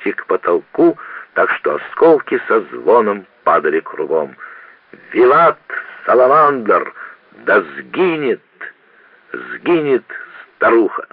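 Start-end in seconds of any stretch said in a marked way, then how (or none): 5.1-11.1 high, rowdy toasting cry; drunken cheering. Acted. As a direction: cheer wildly as glasses fly.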